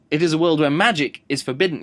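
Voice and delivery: imitated narrator's odd emphasis on MAGIC; shifted emphasis. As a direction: lean hard on MAGIC in "where magic is forbidden". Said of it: "emphasis in different places".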